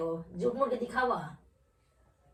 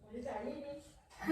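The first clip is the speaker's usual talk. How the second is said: quieter, slow refusal through a laugh; wife refusing the gift while laughing, softer and slow; 4 semitones higher, 6 dB quieter, slower than usual. Real, not acted.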